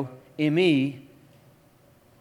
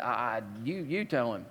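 timid mumble; 8 semitones lower, 12 dB quieter than usual. Pretend. Aside, preacher would cower.

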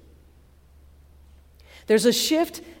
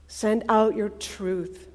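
slow prayer; slower than usual. Real, not acted. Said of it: "slow prayer".

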